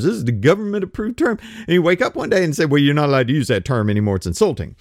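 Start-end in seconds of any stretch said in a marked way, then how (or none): 2.7-4.8 mock officious announcement. Mocking government's new rule.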